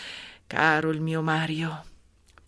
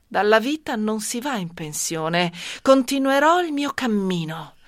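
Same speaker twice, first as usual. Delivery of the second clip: firm, louder declaration of resolve; resolute; 2 semitones higher, 3 dB louder than usual. Acted. Woman vows to herself to start a new life, resolute. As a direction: declare it with mounting determination.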